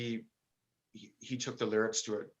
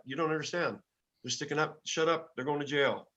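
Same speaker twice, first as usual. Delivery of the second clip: retold police argument; 5 semitones higher than usual.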